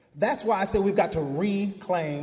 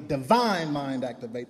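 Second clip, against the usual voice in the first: DIVINE stressed, then mind activate lower; 4 semitones lower than usual. Shown as a demonstration. Preacher showing congregation the first take, stress on divine. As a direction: lean on the word divine. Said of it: "emphasize a different word each time".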